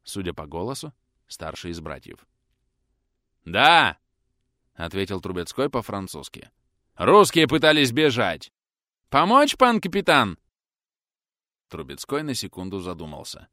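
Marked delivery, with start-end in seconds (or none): 3.4-4.0 louder answer in French. A narrator's reading. Answers the call loudly. 6.9-10.4 higher, louder calls; shouting through door. A narrator's reading.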